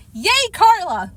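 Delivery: high slow cheer; excited cheer. Acted. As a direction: cheer for her with joy. Kids cheer Carla's win.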